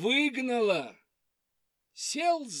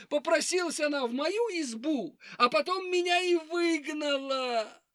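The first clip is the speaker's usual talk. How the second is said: high weepy hare voice; 7 semitones higher than usual. Acted. Hare complains again.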